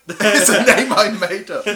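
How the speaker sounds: loud angry outburst. Retold or imitated. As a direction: snap it out at him. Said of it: "Just angrily telling him that".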